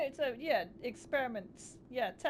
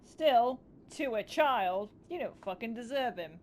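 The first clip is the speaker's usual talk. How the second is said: outraged; 6 dB louder than usual. Real, not acted. Outraged at child experiment.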